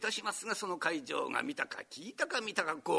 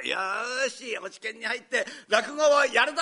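eager vow; 4 semitones higher, 5 dB louder than usual. Retold or imitated.

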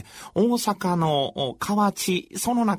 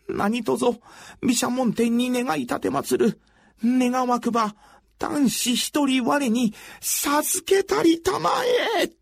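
higher, earnest pleading invocation; fervent prayer; 5 semitones higher than usual. Acted. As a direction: beg the god with all your heart. Wife prays to Bishamonten.

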